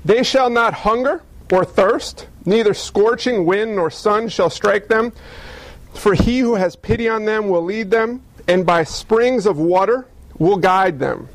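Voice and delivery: slow, measured scripture reading. Acted. Pastor reads Isaiah to the congregation, slow and measured. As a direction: read the verse with weight.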